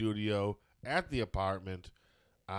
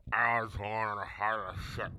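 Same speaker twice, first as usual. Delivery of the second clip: lips stretched wide; 3 dB quieter than usual. Shown as a demonstration. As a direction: mouth pulled wide apart. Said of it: "pull your mouth apart".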